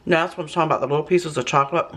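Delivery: talking while chewing; mouth full. Real, not acted. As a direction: talk through a mouthful. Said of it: "I'm talking with my mouth full".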